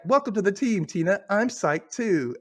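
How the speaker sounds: high, imitated enthusiasm; excited welcome. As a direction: voice a keen written reply, drawing out the end. Acted excited reply from ghost.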